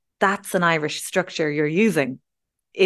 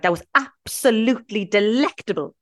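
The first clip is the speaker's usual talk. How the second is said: higher, relishing each stressed syllable; hammed-up, emphatic rave; playful overstatement; 5 semitones higher than usual. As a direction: go above and beyond with the praise. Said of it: "we love going above and beyond".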